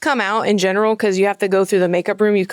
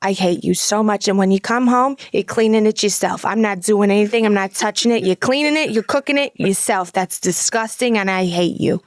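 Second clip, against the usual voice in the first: deadpan Brooklyn mom imitation; Fran Drescher. Mom refusing to touch the deer, disgusted Brooklyn accent. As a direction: scold with Brooklyn vowels, measured disgust. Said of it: "talks like Fran Dresser".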